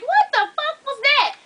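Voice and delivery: high, slow incredulous question; drawn-out shocked question; stunned disbelief. Retold or imitated. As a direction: play the bewildered psychiatrist. Psychiatrist reacts in disbelief.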